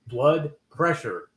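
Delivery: "blood pressure" slowly, word by word; "blood pressure" slow and deliberate, after a stumble; careful pronunciation. Real, not acted. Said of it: "I can't say it".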